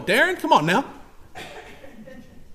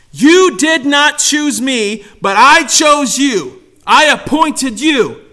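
slow, punched preacher's declaration; emphatic preaching; 4 semitones higher, 5 dB louder, much slower than usual. Acted. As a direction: drive each phrase home slowly.

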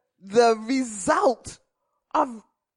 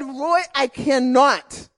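laughing plea; 4 dB louder than usual. Retold or imitated. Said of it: "I said".

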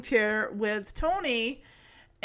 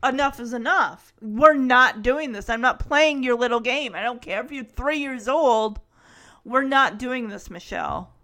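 firm mock parental telling-off; showing who's boss; 4 dB louder than usual. Acting out how uncle should tell Michelle off, firm scolding. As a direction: lay down the law, punching the phrases. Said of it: "If he wanted to show her who's boss".

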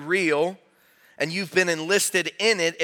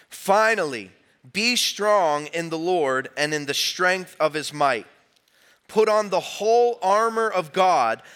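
many voices in unison. Real, not acted. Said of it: "let's lift our voice and hear the word of the Lord together".

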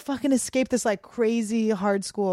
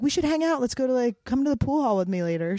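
eager invitation; 4 semitones higher than usual. Retold or imitated. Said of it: "then Liz is like".

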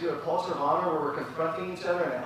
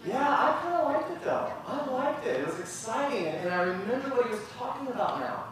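much higher, gently polite voice; polite kind reply; 6 semitones higher than usual. Retold or imitated. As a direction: answer kindly and politely. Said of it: "Maybe it could look like this".

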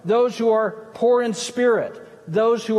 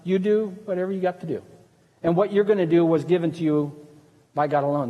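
meek Jesus; 3 semitones lower than usual. Retold or imitated. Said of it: "in meekness".

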